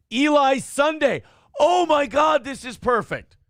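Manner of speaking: light up at the name; delighted. Real, not acted. Reading a fan's chat name, genuinely thrilled.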